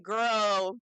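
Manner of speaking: shouted girl with a put-on twang; loud girl. Reacting to Hannah's demands, shouting girl. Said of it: "I was like".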